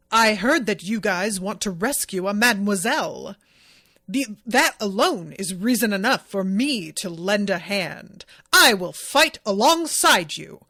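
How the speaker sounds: carefully enunciated gallant speech, mildly done; lightly enunciated hero. Retold or imitated. Retelling the masked hero's entrance, lightly enunciated gallant voice. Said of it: "this really enunciated, elevated, distant sort of speech".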